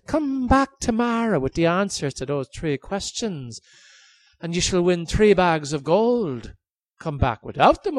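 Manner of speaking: high, loud, gloating king; cruel king voice. Acted. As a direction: taunt him like a cruel king. King sets his terms.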